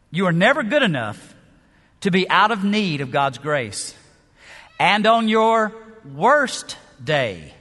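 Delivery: slow, weighty quote with long pauses; measured quotation read. Acted. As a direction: let each phrase land slowly. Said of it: "He says".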